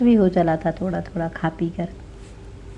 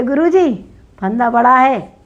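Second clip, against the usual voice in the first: high, loud eager report; eager servant; 4 semitones higher, 6 dB louder than usual. Acted. Executioner telling the king the noose is too big, high and loud. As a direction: call out the news to your master.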